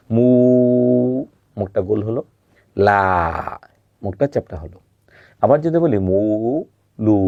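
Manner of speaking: মু and লা said apart, each syllable isolated. Shown as a demonstration. Teacher isolates syllables for students to copy. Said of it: "আমার মুখের দিকে একটু খেয়াল করবেন".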